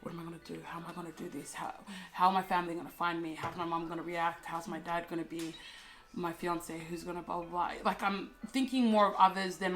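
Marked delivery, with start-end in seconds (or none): 0.0-7.7 softly voiced inner questions; retold anxious thoughts. Recalling her panicked thoughts to listeners, quietly.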